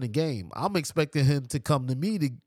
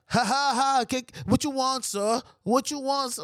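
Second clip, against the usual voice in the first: mock fawning much higher voice; mocking the bartender; 8 semitones higher than usual. Mocking the bartender serving white customers, fawning and much higher. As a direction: imitate someone sucking up to customers. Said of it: "you chucking and jiving".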